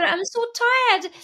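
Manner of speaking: high, slow, small tired voice; weary fear voice. Retold or imitated. The fear admitting it is tired, high and slow. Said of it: "when the fear said".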